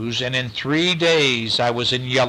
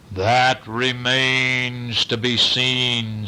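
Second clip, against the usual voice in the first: slow, deliberate moose voice; a measured, unhurried detective moose; blue moose; much slower than usual. Acted. Blue moose answering the boy, slow and deliberate.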